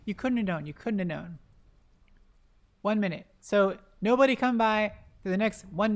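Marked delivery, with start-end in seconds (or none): 0.7-1.4 quieter, sympathetic repeat; soft consoling aside; softer repeat. Real, not acted. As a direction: let it drop gently as consolation. Consoling a player for wards.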